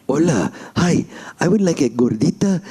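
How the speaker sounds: imitating the ad dog's accented voice; Taco Bell Chihuahua. Prankster ordering at the drive-thru, Chihuahua voice. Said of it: "do the Taco Bell Chihuahua voice".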